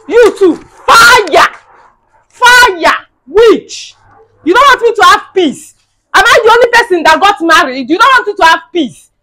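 high, loud yelling; screaming insults. Acted. Wife screaming at her mother-in-law in a fight. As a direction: scream it at her at full force.

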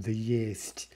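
"есть" whispered softly as the left-out word; teacher whispers the omitted verb. Shown as a demonstration. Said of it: "we omit the linking verb".

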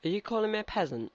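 high, quick indignant question; mock offended. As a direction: act affronted by the insult. Takes offence at game character's insult.

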